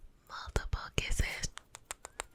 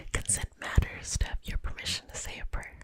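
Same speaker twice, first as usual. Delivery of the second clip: breathless whisper; short of breath while whispering. Real, not acted. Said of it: "I feel like I'm out of breath".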